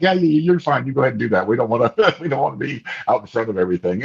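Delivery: lightly playing relatives waving him forward; imitating the family.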